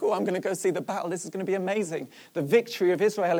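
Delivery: eager, quick-talking young man, lightly acted; mildly excited anticipation, words tumbling out fast; acting out a lad's excitement. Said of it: "he gets all excited".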